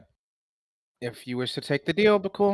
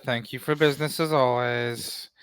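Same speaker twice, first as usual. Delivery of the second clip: deadpan, polite farewell; deadest of tones; 5 dB louder than usual. Acted. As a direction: say goodbye with no feeling at all. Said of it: "The most deadest of tones".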